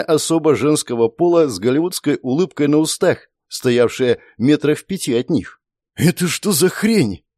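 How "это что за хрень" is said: higher and slower, stunned blurt; astonished. A narrator's reading. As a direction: gasp it out in disbelief. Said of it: "изумлённо вырвалось". (изумлённо, выше и медленнее)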